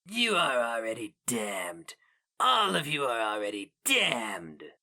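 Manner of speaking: rasping creature condemns them; inhuman pronouncement. A narrator's reading. The Inkoroi damns them all, rasped inhuman verdict. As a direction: pronounce doom, icy and sure.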